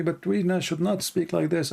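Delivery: high-pitched mock scolding voice; mocking critics. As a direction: parody the prim critics, pitch up. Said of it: "and they say to me".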